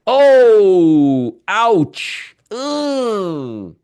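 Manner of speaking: loud, high pained groan at the chart; pained surprise. Real, not acted. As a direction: wince out loud at bad news. Market drop reaction on stream.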